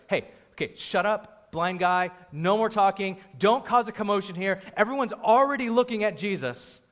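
acted telling-off; annoyed crowd. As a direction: hush him like an irritated bystander. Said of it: "the crowd told him to shut up".

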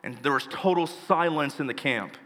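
a low, hushed retelling of a tragedy; solemn story narration. Acted. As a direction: tell it gravely, letting the pauses hang.

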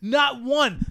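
high, loud, drawn-out exasperated wail; incredulous rant. Real, not acted. Film fan ranting about the absurd shootout, incredulous. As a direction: stretch each word in loud disbelief.

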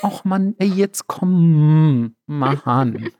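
high, drawn-out whining; whiny voice. Retold or imitated. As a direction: whine like a sulky child begging. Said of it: "War das meine Quengelstimme? … Voll".

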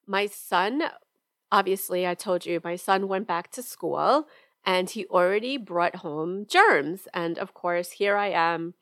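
congested, hoarse from a cold; head cold voice. Real, not acted. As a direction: talk through a head cold. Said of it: "I'm sorry if I sound terrible".

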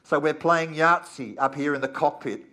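loud, calm cockpit PA voice; airline pilot announcement. Pretend. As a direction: announce it like a pilot over the intercom. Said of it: "the captain's voice comes over the PA".

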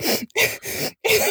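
high mock sob; imitated crying. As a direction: imitate a short burst of sobs. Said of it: "I start crying".

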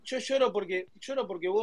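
mock-tearful, halting complaint; put-on weepy grievance. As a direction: play at crying while explaining. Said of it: "Mirá, estás llorando".

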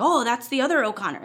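half-hearted attempt at an Irish accent; badly faked Irish lilt, imitating someone; terrible Irish accent. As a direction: toss off a poor Irish accent. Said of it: "that was a terrible Irish accent".

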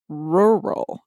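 "rural" drawn out slowly through both r sounds; "rural" said as a slow, careful tongue-twister; hard word demo. Shown as a demonstration. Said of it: "rural's really hard".

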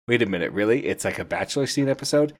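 mock disbelief, pitch climbing on the question; imagined doubtful viewer. Host voices a viewer doubting the Bachelor twist, mock disbelief. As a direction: question it like an incredulous listener. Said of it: "I know what you're thinking".

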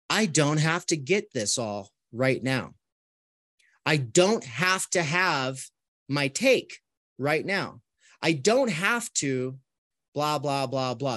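slow, acted sigh of relief; relieved. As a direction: let each phrase out unhurriedly, with pauses, as if unburdened. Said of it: "The big sigh of relief comes like this".

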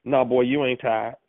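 lightly voiced no-nonsense mama; a hint of mama setting her boy straight; mama's voice. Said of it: "in my mama's voice".

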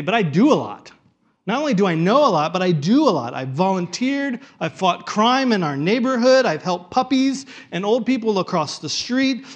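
a proud churchgoer selling himself; boastful do-gooder. Pretend. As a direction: puff up and list your good deeds. Preacher voicing a boastful churchgoer.

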